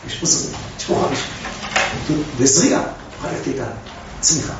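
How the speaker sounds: soft, breathy near-whisper; hushed. Acted. Teacher quietly pointing out the hidden hope. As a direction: drop to a hush as if sharing a secret.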